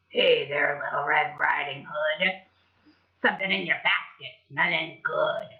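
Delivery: a lightly voiced sneaky wolf sniffing the basket; low sly wolf; big bad wolf.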